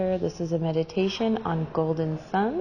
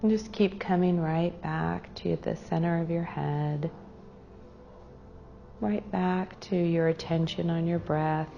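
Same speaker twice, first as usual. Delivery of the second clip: unhurried meditation guide with long pauses; guided meditation. Real, not acted. Meditation leader guiding a group to their breath, calm and unhurried. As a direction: lead them gently inward, pausing between phrases.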